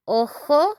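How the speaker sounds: ojo, o-ho, breathy h in the middle; Spanish ojo. Shown as a demonstration. Teacher contrasting ojo with ojos, clear model. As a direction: model ojo for one eye. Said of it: "we say".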